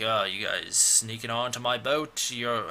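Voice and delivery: a touch of a put-on British accent; badly faked British voice; half-hearted British accent for a movie character; attempted British accent. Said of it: "I gave him a British accent".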